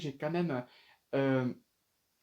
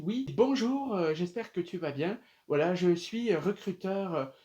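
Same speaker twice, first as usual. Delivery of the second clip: recruteur imité; 3 semitones higher, slower than usual. Retold or imitated. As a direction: greet like a recruiter, lightly put on. Acte le message du recruteur. (recruteur légèrement imité)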